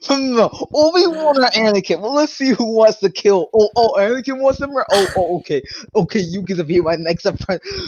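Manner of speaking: musing scheming Palpatine voice; mock Palpatine. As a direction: ponder like a schemer. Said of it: "He was like".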